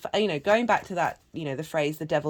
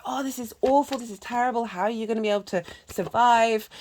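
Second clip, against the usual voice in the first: higher, fretful mock dismay; dismayed neighbors; 5 semitones higher than usual. Storyteller voicing neighbors, mock despair. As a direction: neighbors lament the broken leg. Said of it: "And the neighbors go".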